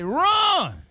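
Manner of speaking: high call to the runner; yelled run. Retold or imitated. Third base coach urging the runner on, yelled. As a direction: yell at him to run.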